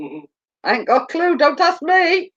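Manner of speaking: rising comic pitch. Pretend. Repeated reply, pitch climbs high.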